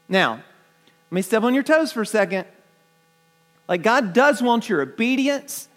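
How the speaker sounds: normal talking voice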